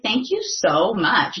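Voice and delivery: retold heartfelt thank-you; effusive thanks. Retells thanking the man who doubted her.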